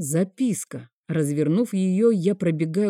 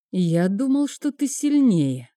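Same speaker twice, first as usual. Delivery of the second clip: contemptuous; 4 semitones higher than usual. Acted. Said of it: "презрительно произнёс Сирил".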